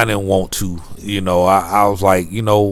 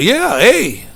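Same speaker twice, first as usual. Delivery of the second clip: high, louder Canadian sing-song ending on eh; mock Canadian accent; 13 semitones higher, 6 dB louder than usual. Vlogger joking in a put-on Canadian accent, high and loud. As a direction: play the Canadian, asking for soda. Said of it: "I'm like".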